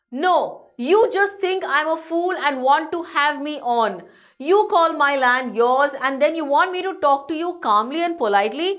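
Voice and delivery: indignant objection, lightly acted; irritated. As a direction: read it as a touch aggrieved and annoyed. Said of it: "getting all the more irritated".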